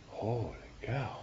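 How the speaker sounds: put-on slow, high Holy cow with a light German accent. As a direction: imitate Hans Bethe's amazed German accent, drawn out. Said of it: "in his German accent".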